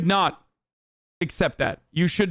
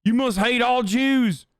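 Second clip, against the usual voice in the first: slow, raised mocking accusation; mock MAGA supporter; 4 semitones higher, slower than usual. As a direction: lightly parody an outraged Trump supporter. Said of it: "sound like maga Trump supporters".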